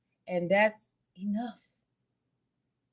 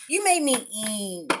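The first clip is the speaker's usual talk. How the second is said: slow, cartoon fish voice; Nemo voice; 3 semitones higher, 4 dB louder, slower than usual. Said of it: "From, um, the Nemo".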